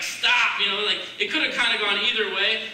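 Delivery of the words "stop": a firm, slightly raised stop; firm command. Pretend. Jesus standing up in the boat, firm command. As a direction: halt the storm with one firm word. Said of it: "stood up, like".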